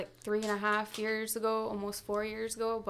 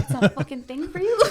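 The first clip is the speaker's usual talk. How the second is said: laughing; 5 semitones higher, 7 dB louder, faster than usual. Retold or imitated. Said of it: "I was like".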